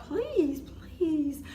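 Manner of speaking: high, begging please; pleading near tears. Retold or imitated. To the sheriff, begging near tears. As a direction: beg the officer on the verge of tears. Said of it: "on the verge of crying".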